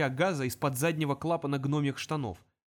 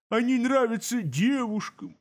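fading demon; 7 semitones higher, 4 dB louder, slower than usual. Acted.

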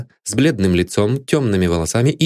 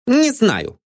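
high, curt reply; sharp. A narrator's reading. Maid Anne answers the detective sharply. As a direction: cut him off sharply. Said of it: "резко ответила мисс Лиффорд".

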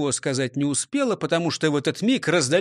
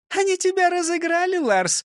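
laughing. A narrator's reading. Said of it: "рассмеялась она".

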